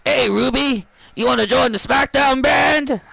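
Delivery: lightly attempted British accent; poor British accent. Nick Aldis invites Ruby to SmackDown, poor British accent. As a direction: have a half-hearted go at British. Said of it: "That was a poor attempt of a British accent".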